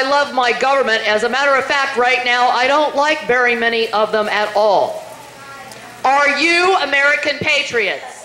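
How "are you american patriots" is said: rally shout. Real, not acted.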